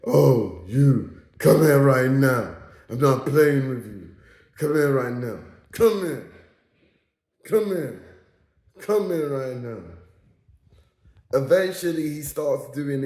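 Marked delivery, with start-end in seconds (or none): 0.1-9.8 lightly put-on commanding trade voice. Friend imitating his trade voice for the listeners, mock commanding. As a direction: imitate a man ordering someone over, firm opening easing off. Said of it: "His trade voice is".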